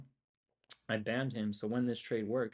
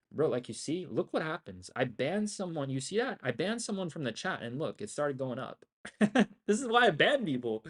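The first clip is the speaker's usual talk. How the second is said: higher and louder, building to a triumphant laugh; excited crowing; 6 semitones higher, 7 dB louder than usual. Real, not acted. To the stream after banning a chatter, loud excited gloating. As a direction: gloat like you just proved a point.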